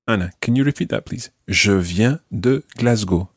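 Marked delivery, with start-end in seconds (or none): 1.5-3.3 slow, measured "Je viens de Glasgow"; slow model phrase. Shown as a demonstration. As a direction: model "Je viens de Glasgow" slowly for the learner to repeat. Teacher models it for repetition.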